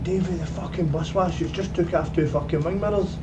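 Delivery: mock alarmed holler across a yard; Brian. Owner's son reporting the bus wash damage, imitated shout. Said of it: "Brian shouting".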